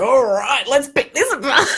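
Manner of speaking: high, giggly and amused; laughing. Real, not acted. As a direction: laugh through the words, tickled. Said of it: "This is fun".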